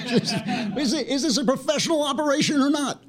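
high-pitched, helpless laughter through the words; cracking up. Real, not acted. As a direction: talk while breaking up laughing. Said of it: "without cracking up".

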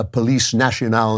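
Police Nationale said in a self-admittedly bad French accent; amateur French pronunciation of Police Nationale. Shown as a demonstration. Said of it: "forgive my terrible French accent".

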